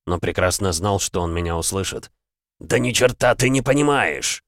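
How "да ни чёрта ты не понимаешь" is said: громкий злой окрик; взорваться гневом на героя; гневный выкрик. Acted. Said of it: "гневно выкрикнул Верховный". (гневный выкрик)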